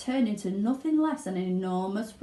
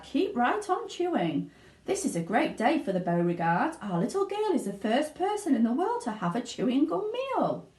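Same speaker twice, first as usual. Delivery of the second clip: higher, cheering father; Mr Beauregard; 5 semitones higher than usual. Acted. Father cheers Violet on, proud. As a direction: egg her on. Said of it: "said Mister Beauregard".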